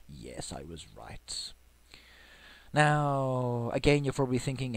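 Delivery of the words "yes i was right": a hushed, breathy whisper to himself; pleased little whispered aside. Real, not acted. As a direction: whisper the win under his breath. Quietly checks a guess.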